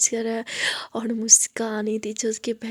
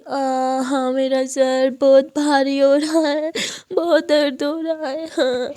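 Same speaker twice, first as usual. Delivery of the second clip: put-on drunken whimper; 5 dB louder, slower than usual. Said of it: "और ऐसे ही रोने लगती है".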